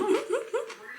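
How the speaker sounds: squeaky excited giggle; high giggle. Real, not acted. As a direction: break into a high little laugh. Laughing at tomorrow's leftovers. (신나서 높게 킥킥 웃기)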